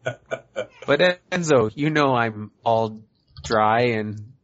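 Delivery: slow, lightly voiced old woman; old hag voice. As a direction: drag it out like a creaky old lady. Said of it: "Make him do an old woman voice".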